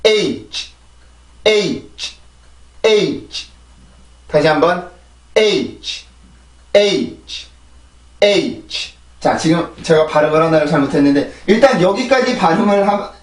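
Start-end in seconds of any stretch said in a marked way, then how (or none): 0.0-8.9 "H" as one falling syllable with a separate final release. Shown as a demonstration. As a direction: model "H" slowly, glide down, crisp ending. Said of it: "해볼게요". ("H"를 한 음절로 끝소리까지 또렷이 발음)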